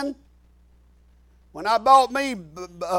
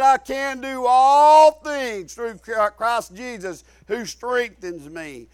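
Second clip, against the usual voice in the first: preached declaration; slower than usual. Retold or imitated. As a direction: swell on "all", drawn out, then drop away. Declares scripture over his pain.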